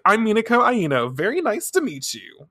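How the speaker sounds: high-pitched, showy introduction; eager friend. Retold or imitated. Friend struts over to greet the idol, perkily. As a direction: introduce yourself in a high, perky voice.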